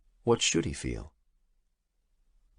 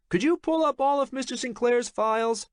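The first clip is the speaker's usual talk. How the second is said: calling out. A narrator's reading. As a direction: project it over the office din. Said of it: "Jake called out".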